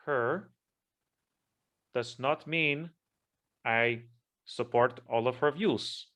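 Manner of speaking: hammed-up Spanish accent. Speaking to YouTube in a lightly put-on Spanish accent. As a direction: play up a Spanish accent while clarifying, only lightly. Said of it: "I am going to use my Spanish accent".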